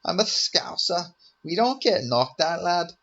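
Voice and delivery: mock Scouse swagger, drawn out; Paddy Pimblett impression. Imitating Paddy Pimblett boasting, in a mock Scouse accent. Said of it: "do a Paddy Pimblett impression".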